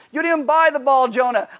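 high, loud exasperated scold; God scolding the toddler Jonah, loud; scolding parent. Acted. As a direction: answer the toddler like a fed-up parent. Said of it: "like a two-year-old".

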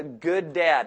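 slow emphasis on the word "good"; stress on "good". Real, not acted. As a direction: lean slowly on "good". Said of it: "I emphasize the word good".

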